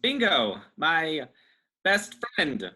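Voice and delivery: hinting tone. Acted. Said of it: "Dylan changes his tone, trying to hint to Bingo he's in danger".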